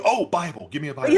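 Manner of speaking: high, pleading mock beg for a Bible; pleading prisoner. Inmate begging the guards for a Bible, high pleading. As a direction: whine it up like a desperate inmate.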